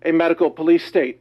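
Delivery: out of breath after lifting weights. Real, not acted. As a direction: talk a bit out of breath. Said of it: "I'm a little bit out of breath here".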